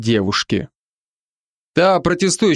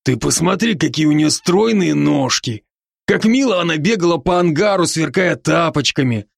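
бодрый, чуть выше голос друга-оборотня; успокаивает друга, слегка играя роль; Рон, заботливый друг; 4 semitones higher than usual. Acted. Ron's voice again. (оборотень Рон уговаривает друга дышать)

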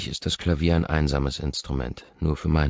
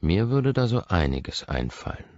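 seductive. Acted. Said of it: "Meine Stimme will verführen".

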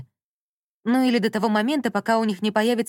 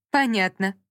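almost snorting. A narrator's reading. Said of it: "почти фыркнула колонка".

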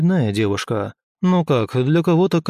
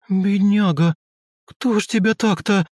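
much higher, pitying shocked cry; shocked exclaim; 8 semitones higher than usual. A narrator's reading. Chika sees a girl without tail and ears, high shocked pity. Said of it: "шокированно воскликнула Чика".

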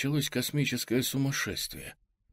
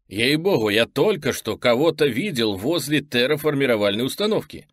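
urgent, raised voice; insistent; 4 semitones higher, 5 dB louder than usual. Acted. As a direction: insist hard that you saw someone. Insists he saw someone.

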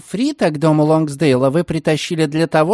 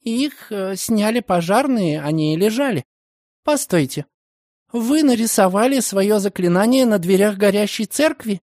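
put-on higher, rising alarmed young woman; exclaiming; 7 semitones higher than usual. A narrator's reading. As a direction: burst out in disbelief. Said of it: "вскричала девушка". (вскричала)

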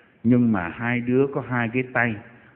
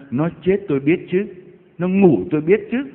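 higher-pitched, derisive retort; scoffing; 6 semitones higher than usual. Retold or imitated. Mourners jeering at Jesus's words, scoffing. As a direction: scoff as if insulted by the claim. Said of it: "họ chế giễu Ngài".

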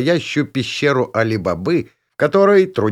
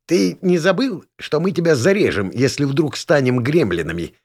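grumbling goblin; 4 semitones higher than usual. Acted. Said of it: "ворчливо осведомился гоблин".

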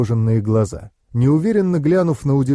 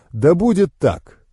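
slow, raised, ceremonial declaration; solemn pronouncement; 5 semitones higher, slower than usual. A narrator's reading. New master accepting her vow, solemn. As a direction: seal it like an oath. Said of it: "торжественно произнёс я".

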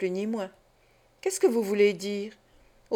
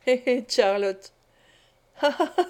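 cackling laugh. Acted. Fagin chuckles to Charlotte, picturing the jurors laughing. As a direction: cackle with sly glee.

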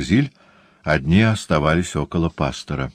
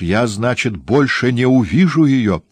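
high, louder lament; despairing cry; 6 semitones higher, 4 dB louder than usual. A narrator's reading. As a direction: cry out in despair at losing someone. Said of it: "с отчаянием вскричал Ретлидж".

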